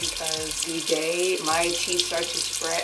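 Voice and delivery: slight lisp from a retainer. Real, not acted. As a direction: talk around a retainer. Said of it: "if you see me having, like, a lisp, it's because I have my retainer in now".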